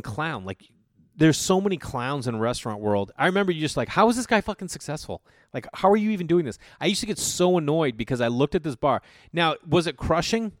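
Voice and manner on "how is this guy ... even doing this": higher-pitched, baffled complaint; retold incredulous griping; exasperated disbelief. Bartender griping about the owner's success, exasperated disbelief.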